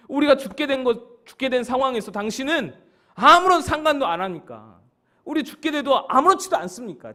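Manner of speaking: high, forceful accusing questions; angry disciples. Acted. Drowning disciples demand whether Jesus cares, angry. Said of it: "화가 잔뜩 나서 예수님께 따지고 있는".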